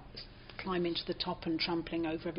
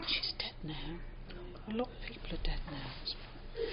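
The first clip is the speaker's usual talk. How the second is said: hushed; 2 semitones lower, 7 dB quieter than usual. Real, not acted. Speaking softly of her dead friend. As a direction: drop to a soft near-whisper.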